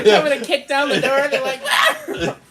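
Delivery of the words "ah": high-pitched mock scream through laughter. Acting out people kicking the door.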